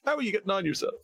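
high mock caller laughing into the line; laughing cold caller. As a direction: ham up a giggly sales call opener. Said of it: "Starting with just".

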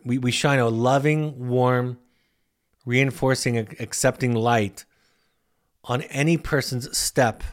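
slow, deliberate delivery with pauses; measured and drawn out, letting each piece land. Shown as a demonstration. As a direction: say it slowly, phrase by phrase. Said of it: "I'm gonna say it very, very slowly".

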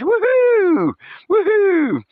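high, loud triumphant woohoo; shrieked double whoop. Acted. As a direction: cheer the upgrade at full voice. Squirt gun upgrade cheer.

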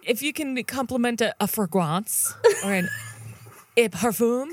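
muffled, mushy mock French; playful put-on French; mock French accent. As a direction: say it like your mouth is stuffed with tissues. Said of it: "Why do you sound like you have marbles in your mouth".

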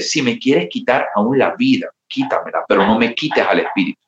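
pleading prayer. Retold or imitated. David voiced pleading to God.

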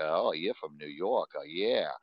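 put-on New Yorker voice; drawn-out mock New York accent. Shown as a demonstration. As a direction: imitate a New Yorker, unhurried. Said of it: "when you hear a New Yorker".

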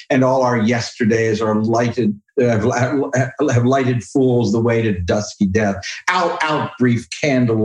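measured recitation of the Macbeth soliloquy, lightly performed; reciting Shakespeare. Shown as a demonstration. Guest recites Macbeth soliloquy to host, understated recital. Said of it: "so I can say the Macbeth soliloquy".

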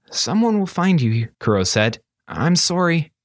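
a touch of sorrow, leaving her; gentle regret. A narrator's reading. Boy leaving his friend on the shore, gently sorry.

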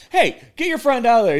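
high, fast scolding golf pro; squeaky, rushed mock golf pro. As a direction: yell it like a fussy golf pro shooing them off.

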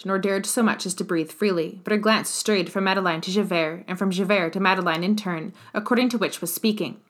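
usual speaking voice

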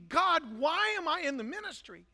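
impassioned reenacted plea to God; anguished questioning. Weeping pastor questioning God about his ministry, anguished. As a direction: plead for answers, rising in intensity. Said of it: "this moment of questioning".

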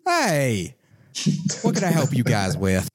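folksy shopkeeper's welcome; sudden friendly switch. Acted. Shopkeeper greeting customers after a threat, suddenly friendly. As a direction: drop the threat and greet them sweetly. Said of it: "went from a hundred to zero".

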